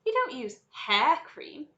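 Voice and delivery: high, loud, slow disbelief; incredulous cry. A narrator's reading. Mike challenges Wonka about hair cream, incredulous. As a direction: draw the words out, baffled. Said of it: "cried Mike T V".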